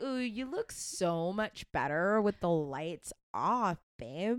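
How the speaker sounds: slow teasing ooh with a lover's purr; mock flirty. Partner teasing babe about looks, slow mock flirt. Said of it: "You're, you're like".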